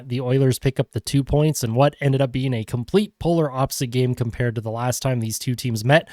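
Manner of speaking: stuffy, congested voice; blocked nose. Real, not acted. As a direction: talk through a blocked nose. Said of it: "I still sound congested".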